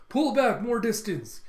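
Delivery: high, loud order from a leader; shouted command. Retold or imitated. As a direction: call out an urgent order across the ships. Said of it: "Yakuza leaders goes".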